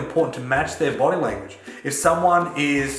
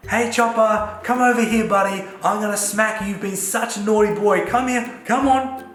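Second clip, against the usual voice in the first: high, sing-song sweet call to a dog; 8 semitones higher than usual. Shown as a demonstration. Owner calling his dog Chopper in a sweet high voice. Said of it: "But if I say to him".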